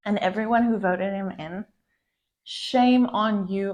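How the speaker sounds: angry reproach, drawing out the shaming; real anger. Real, not acted. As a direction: scold them firmly, slowing on the blame. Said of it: "I'm just really angry right now".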